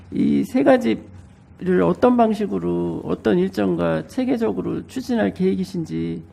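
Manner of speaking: speaking through a blocked nose; stuffy nose. Real, not acted. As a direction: voice thick with a cold. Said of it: "제가 감기에 걸려서". (감기 걸린 코맹맹이 목소리)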